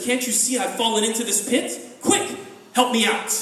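a trapped animal's urgent appeal; urgent plea. Acted. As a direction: call for help out of the pit. Trapped leopard demands rescue.

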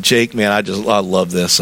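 lightly voiced low Southern man; deep Southern voice. Farmer in his mid-eighties loving the work, deep Southern voice. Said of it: "his deep voice".

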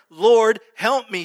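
high, loud pleading cry; desperate cry. Retold or imitated. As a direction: cry out for help on your knees. Woman cries out before Jesus.

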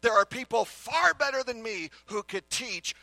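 inner doubting voice. Retold or imitated. Preacher voicing the listener's inner doubt, a mild anxious fretting. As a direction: play the nagging thought that says you're not enough.

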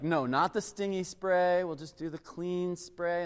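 slow, calm parental reassurance; lightly voiced soothing dad, unhurried; reassuring dad. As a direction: gently talk a worried kid down. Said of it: "I'm like".

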